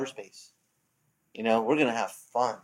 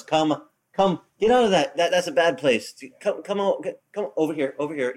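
the Lord calling; 3 semitones higher than usual. Retold or imitated. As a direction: coax them home from danger, pitched up. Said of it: "the Lord is telling us".

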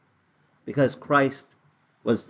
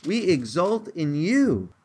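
much higher, bursting "Yay" of pure delight; joyful leaping cheer; 8 semitones higher, slower than usual. Shown as a demonstration. Showing the kids what exult means, with a high joyful cheer. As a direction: cheer like a kid leaping for joy. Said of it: "Like jumping up in a".

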